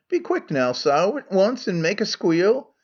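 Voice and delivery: Scots Megarian. Acted. Megarian role in Scots dialect.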